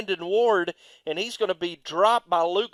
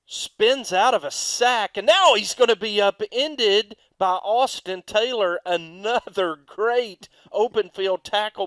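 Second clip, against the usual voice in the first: louder, higher rising call; excited play-by-play; 4 semitones higher, 6 dB louder than usual. Real, not acted. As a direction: sell the big tackle live. Big play called live.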